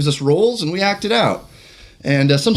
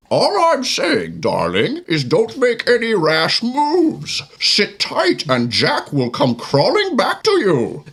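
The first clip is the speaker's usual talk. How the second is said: slow, menacing masked villain; Bane voice; 5 semitones higher than usual. Acted. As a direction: intone it like a brooding brute. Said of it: "as a Bane".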